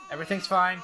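tense, contained insistence; strained reassurance. Pretend. Gamer insisting everything's fine as it gets hectic, strained. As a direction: hold the panic in while claiming control.

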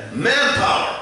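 high, loud defiant cry; defiant shout. Acted. Mankind turning its back on God, defiant shout. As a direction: yell it like a proud rebel.

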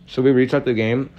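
talking with food in mouth; words round a bite of food; mouth full. Real, not acted. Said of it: "have food in my mouth".

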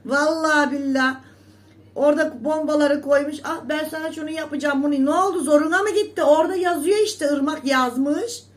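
loud, high, heated scolding; angry outburst. Real, not acted. Scolding TikTok rivals for their comments, loud and angry. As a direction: rant hard at the rivals.

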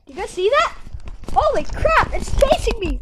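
panicked, rising alarm; startled and spooked, talking fast; scared horror game streamer. Acted. Creature chasing the streamer.

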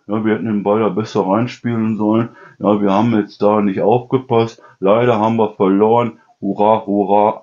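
lightly voiced flat footballer reading a script, no stress. A player reading the interview script with no joy, lightly voiced. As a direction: recite it like a bored player reading a prompter. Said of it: "Die reden alle so".

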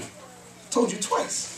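whispered slowly, almost unvoiced. Shown as a demonstration. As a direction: lean in and breathe it slowly like a secret. Repeats the point, then whispers it.

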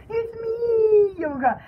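playful drawn-out ghostly reply; ghost revealing herself. Pretend. Ghost answering the startled man, playful drawn-out reply. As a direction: draw out "me" as the ghost. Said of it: "Be like".

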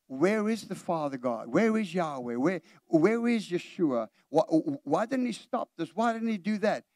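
mock doubting complaint; questioning attitude. Preacher voices the church's doubting attitude, questioning. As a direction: imitate a doubter demanding answers. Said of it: "It's almost an attitude like".

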